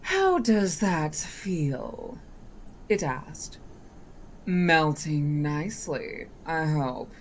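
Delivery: slow sly politeness. Acted. Genie's polite inquiry.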